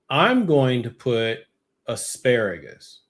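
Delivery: slow, drawn-out mock declaration; deliberate announcement. Shopper answering the grocery store's question, deliberate. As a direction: spell out the choice slowly and deliberately.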